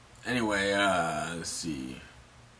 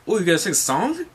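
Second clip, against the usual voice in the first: tag; 6 semitones higher, faster than usual. Acted. Acted curious crewmate asks Brooke.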